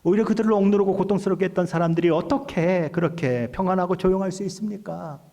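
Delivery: acted-out challenge to God, starting high; 따지듯이. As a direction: plead your case like an indignant accuser. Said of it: "하나님 앞에 따지듯이 이야기하는 것입니다". (따지듯이 항의하는 말투)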